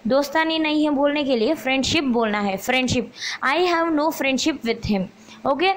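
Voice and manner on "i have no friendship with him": slow dictation. Shown as a demonstration. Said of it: "dictating the answer sentence".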